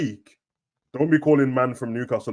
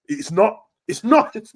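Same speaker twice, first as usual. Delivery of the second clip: laughing insistence; 8 semitones higher, 4 dB louder, slower than usual. Real, not acted. Insisting Coventry isn't Birmingham.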